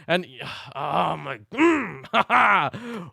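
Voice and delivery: exasperated sigh into a groan; too worked up to finish the words; slow, seething sigh breaking into a tense grunt; pissed off. Real, not acted. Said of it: "I'm still pissed".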